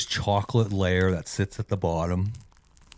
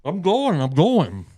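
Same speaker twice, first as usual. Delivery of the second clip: high protest; 10 semitones higher, 4 dB louder, slower than usual. Real, not acted. Defensive after being teased.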